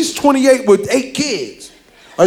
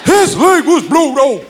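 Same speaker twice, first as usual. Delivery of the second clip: put-on grandma defending her baby, gospel style; gospel-singer grandma; 9 semitones higher, slower than usual. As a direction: belt it like a gospel singer. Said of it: "She said".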